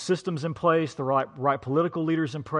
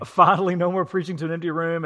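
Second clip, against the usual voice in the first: laughing echo; 3 semitones higher, 5 dB louder than usual. Real, not acted.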